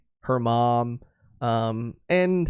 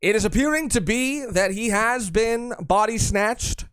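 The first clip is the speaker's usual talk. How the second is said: higher, formal news anchor read; 6 semitones higher than usual. Pretend. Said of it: "That's the kind of new show I run".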